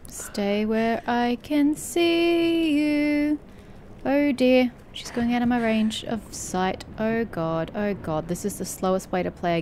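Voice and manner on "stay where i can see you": slow wary command. Pretend. Talking to the stalking monster.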